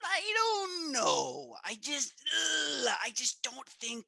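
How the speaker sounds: drawn-out, pained high apology; mock pained apology. Improv teller refusing a customer's check, pained and slow. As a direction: wince and stretch it out, full of regret.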